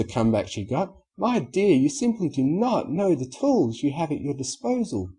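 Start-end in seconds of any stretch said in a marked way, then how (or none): 1.2-5.1 Rarity voice. Acted.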